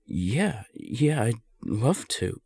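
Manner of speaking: can't hold back the joy; eager yes. Acted. Excited yes to the offer of a relationship. The listener asks to give it a shot.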